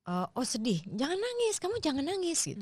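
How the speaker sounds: high, scolding mother's voice; scolding parent. Retold or imitated. Mother scolding her crying child, in a high scolding voice.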